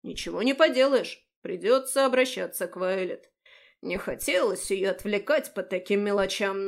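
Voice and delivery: fake sadness. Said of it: "наигранно грустно".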